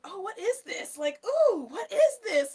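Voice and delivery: high, cooing curiosity; retold intrigued delight. Retelling to viewers hearing a friend's song, intrigued delight.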